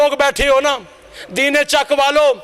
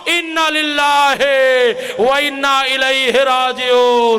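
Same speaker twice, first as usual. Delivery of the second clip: cried out; slower than usual. Acted. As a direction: wail the words out. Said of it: "एक चीख बुलंद करके कहा".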